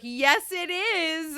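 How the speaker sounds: drawn-out amused reply; celebrity voice. Retold or imitated. Star confirms it to the fan, slow and amused. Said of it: "And she's like".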